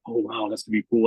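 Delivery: put-on high, thrilled kid's wow; excited kid. A kid thrilled to play for the card, high and excited. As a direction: squeal it like a delighted kid.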